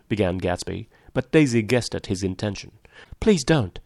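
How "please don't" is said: higher-pitched, helpless plea; helpless interruption. A narrator's reading. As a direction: plead as if powerless to stop it. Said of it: "she interrupted helplessly".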